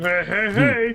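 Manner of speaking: very high, loud, belted cartoon voice. Answering own question about who can do the cartoon voice: Fat Albert voice. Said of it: "can anyone here do a Fat Albert?".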